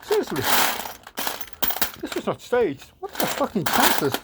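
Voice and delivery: high, incredulous; who would believe this luck; disbelieving. Real, not acted. Disbelief at lucky find.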